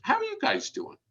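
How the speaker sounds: bright, high sing-song hello; chirpy upbeat check-in; cheery greeting. Retold or imitated. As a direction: pitch it way up like a friendly opener. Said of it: "then I'll ask 'em".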